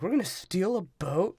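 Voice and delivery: mock surprise at "gonna steal"; incredulous question. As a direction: ask it like it's a crazy idea. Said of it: "and he's like".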